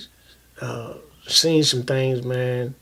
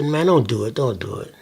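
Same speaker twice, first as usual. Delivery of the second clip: warning voice; 5 semitones lower, 3 dB quieter than usual. Retold or imitated. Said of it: "the other voice will say".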